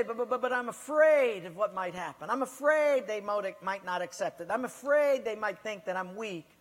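loud stammering fearful excuse. Acted. A preacher mimics a frightened churchgoer, stammering loudly. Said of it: "But you say".

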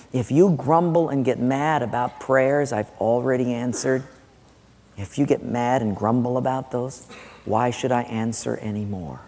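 low, soft warning; God. Acted. God warning those who grumble about answered prayers, quietly stern. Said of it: "God's saying".

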